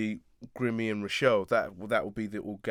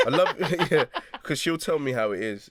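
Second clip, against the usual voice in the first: laughing fondly; 5 semitones higher, 5 dB louder than usual. Real, not acted. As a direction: warm chuckle through the words. Fond laugh about his sister.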